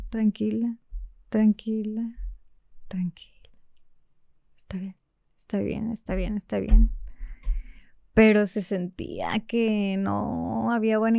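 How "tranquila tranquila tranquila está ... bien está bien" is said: calm yourself down under your breath; Pepe Grillo. Retold or imitated. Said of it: "Pepe Grillo seguía". (Pepe Grillo calmándose, susurrando)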